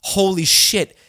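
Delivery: loud, gushing mock excitement; mock overexcited family. Family reacting to his movie news, loud mock excitement. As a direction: gush like a relative who thinks he's famous.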